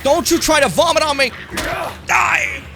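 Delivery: high, loud shout at the monster; fight shout. Real, not acted. Gamer yelling at an attacking monster, loud high shout. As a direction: yell it right in the creature's face.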